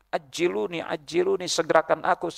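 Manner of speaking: high, soft imitation of urgent pleading; pleading corpse, mock cry. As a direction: lightly voice the dead begging to be hurried. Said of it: "jenazah tuh kalau orang soleh, dia teriak-teriak".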